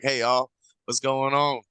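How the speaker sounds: slow, slurred American greeting; lazy American drawl. Shown as a demonstration. Mocking lazy American speech to a podcast host, slow slurred drawl. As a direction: run it together like a lazy American. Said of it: "Slurring every word we possibly can".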